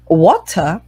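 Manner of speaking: water said with a clear t, British style; British water with a crisp t. Shown as a demonstration. Teacher shows the British water. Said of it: "Como vocês preferirem".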